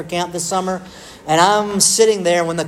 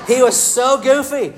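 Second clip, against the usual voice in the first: goofy Barney voice; 7 semitones higher than usual. Shown as a demonstration. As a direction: ham up the silly dinosaur. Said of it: "he kinda sounded like this".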